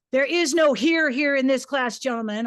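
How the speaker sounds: a hint of a stern teacher command. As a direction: lay down the rule. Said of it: "I would command".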